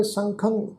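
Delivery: ਸੰਖੰਗ ending in a nasal ng. Shown as a demonstration. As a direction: sound the tippi nasally in ਸੰਖੰਗ. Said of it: "ਨਾਸਿਕ ਉਚਾਰਨ ਕਰਾਂਗੇ".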